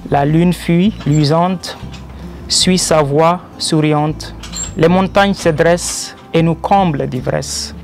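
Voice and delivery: measured devotional verse, a pause after each line; poem recitation. Acted. Poet reciting his verses in praise of the Creator, poem recitation. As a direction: declaim rhymed praise line by line.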